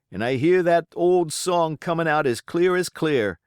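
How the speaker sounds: high, loud grim agreement; another pirate. Acted. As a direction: pitch it up as a rough shipmate. Pirate recounts Flint's death.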